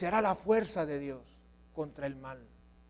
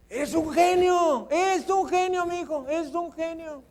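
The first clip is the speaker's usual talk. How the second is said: sarcastic dad praising a failing son, high and mocking; sarcastic father; 9 semitones higher than usual. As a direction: overdo the praise so it drips sarcasm. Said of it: "no se lo diga así con un tonito de sarcástico".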